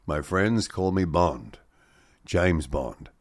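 lightly voiced film line, slow and low; a slow, understated take on the screen-test line; James Bond. Presenter quoting actor's screen test as James Bond, lightly voiced. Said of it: "uttered the immortal words".

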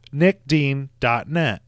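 slow, spaced-out plug of "Nick Dean dot net", each word given its own beat. Shown as a demonstration. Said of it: "Say it into the mic what it is".

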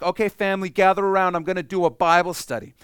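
mock earnest child preacher, loud and high; little Jesus. Boy Jesus calls his family to study, mock earnest. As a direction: play a four-year-old announcing Bible study. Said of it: "he's like".

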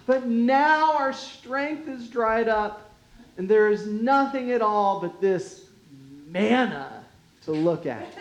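lightly whined complaint; whiny voice. Acted. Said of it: "you've got to read this with a whiny voice".

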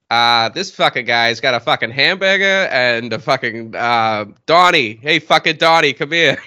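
mild tough guy; lightly voiced Mark Wahlberg. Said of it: "your turn to do a Mark Wahlberg impression".

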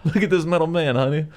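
hammed-up yelling country kid; excited kid. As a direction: yell for the family like an amazed farm kid. Kid calling family to robot.

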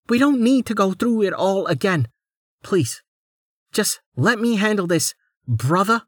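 haughty noblewoman. Acted. Lady Inor voiced.

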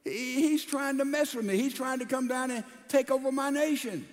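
mild mock outrage of a frightened king; upset king. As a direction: let the king fret at a threat. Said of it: "he got all upset".

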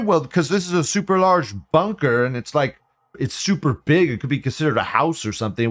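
mocking a smug government official; mock bureaucrat. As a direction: play a smug permit clerk scolding.

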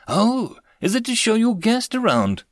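a hint of a curious old woman. A narrator's reading. Elderly woman asking the Major about his guest, lightly voiced, high. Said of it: "the old woman asked".

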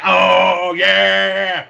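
loud, high "Oh, yeah!"; excited cheer. Pretend. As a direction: cheer it out like a hyped fan. Acting out an excited listener.

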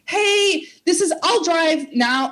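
put-on a young girl talking fast out of nerves, pitched well up; panicky. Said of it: "I'm a young girl and I'm panicking".

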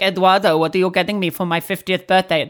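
a light, deliberately bad Mexican accent; hammed-up but faint Mexican accent, teasing; awful Mexican accent. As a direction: mimic a daughter's jokey Mexican accent, barely put on. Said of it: "That's an awful Mexican accent".

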